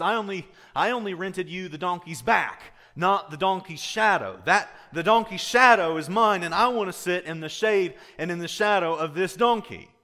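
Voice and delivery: rising indignation, claim what's yours; indignant donkey owner. Retold or imitated. Donkey owner insists on the shadow.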